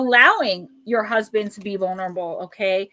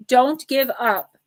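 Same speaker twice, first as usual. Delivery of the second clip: emotional plea; 4 dB louder, slower than usual. Real, not acted. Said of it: "I'm getting emotional again".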